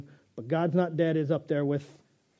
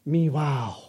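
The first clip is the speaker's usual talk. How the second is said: cat voice; slower than usual. Pretend. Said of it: "Cat says".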